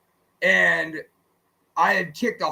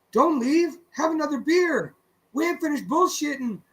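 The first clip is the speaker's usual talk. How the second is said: mock drunk buddy; 7 semitones higher than usual. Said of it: "he's got two modes".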